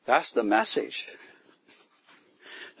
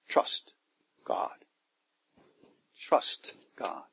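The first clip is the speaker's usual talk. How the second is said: whispered; 4 semitones lower, 8 dB quieter, much slower than usual. Acted. Quiet closing of sermon point.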